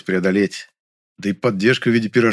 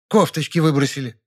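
grumpy, higher reply; displeased; 5 semitones higher than usual. Acted. Stout woman in a queue answering him, displeased. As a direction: answer with irritation. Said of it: "недовольно ответила она".

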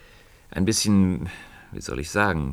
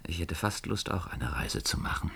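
musing whisper; 7 dB quieter than usual. Acted. Musing aloud to himself.

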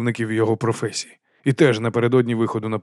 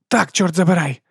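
sharp, raised bark; barked reply; 7 semitones higher, 4 dB louder than usual. A narrator's reading. Woman answers the duke who recognised her, barking. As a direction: bark it back, pitched up. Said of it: "гаркнула вона".

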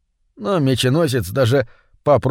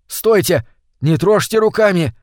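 higher-pitched cry of warning; mild shout; 5 semitones higher than usual. Acted. Витя warns bus passengers off the fallen fish, mild shout. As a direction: call out to stop them, voice lifted a little. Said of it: "закричал Витя".

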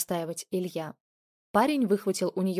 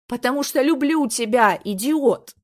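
much louder, exasperated cry; angry yell; 5 semitones higher, 8 dB louder than usual. Acted. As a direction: shout it out in hurt frustration. Girlfriend yells love in quarrel.

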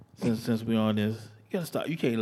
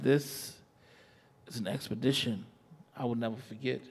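slow, sensual spoken word; poem recitation; slower than usual. Acted.

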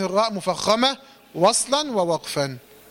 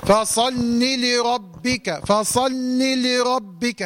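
slow recitation; much slower than usual. Shown as a demonstration. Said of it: "demo lam sequence".

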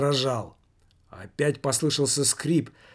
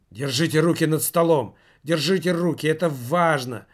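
urgent insistence; 3 semitones higher, 5 dB louder than usual. Acted. Someone urging hands kept up.

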